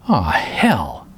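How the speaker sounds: breathy unvoiced mutter of annoyance; whispered curse. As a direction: mutter it under your breath. Annoyed at knock on door.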